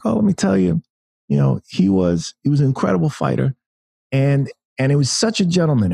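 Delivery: high, earnest bad boxer impression; Mike Tyson. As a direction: imitate a famous boxer in a high voice. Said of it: "that's my terrible Mike Tyson impression".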